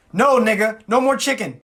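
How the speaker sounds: high, loud mock exasperation; exasperated refusal. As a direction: shut the friend down emphatically. Refusing friend's request in skit.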